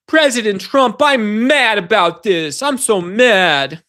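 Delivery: lightly mocking Pam Bondi complaining to President Trump; mock whiny aide. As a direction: imitate a pouty aide, dragging it out. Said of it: "Pam Bondi saying".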